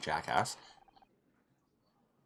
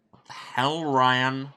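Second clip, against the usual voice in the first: loud, higher, indignant outburst; outraged protest; 5 semitones higher, 8 dB louder, much slower than usual. Acted. Protesting at Ryan's public announcement, outraged protest. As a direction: snap loudly at the troublemaker.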